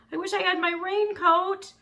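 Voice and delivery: put-on high, loud boy's yell over the storm. A narrator's reading. Elmer yells to the dragon through the storm. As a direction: shout it against the wind. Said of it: "yelled Elmer".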